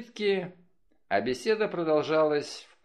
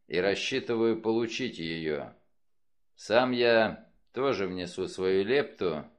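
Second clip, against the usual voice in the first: lightly voiced detective, slightly lower and deliberate; measured detective Wolfe; 5 semitones lower than usual. Wolfe lays out his plan to the detectives, lightly voiced and measured. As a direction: address the group formally, a touch low.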